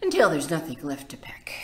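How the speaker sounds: quick breathy whisper. Acted. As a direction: hush it fast to the end. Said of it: "whispered fast".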